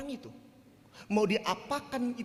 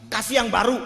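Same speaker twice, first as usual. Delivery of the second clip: louder, pressing on yang; firm retort; 7 dB louder, faster than usual. Retold or imitated. Pastor to church members, a louder firm retort. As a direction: insist they give something new. Pastor repeats demand to congregant.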